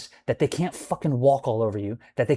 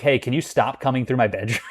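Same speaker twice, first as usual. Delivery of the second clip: laughing jab. Retold or imitated. Mocking retort with laugh.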